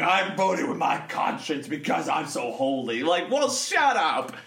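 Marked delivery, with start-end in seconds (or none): 0.0-3.0 mock pious coworker. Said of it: "he's all like".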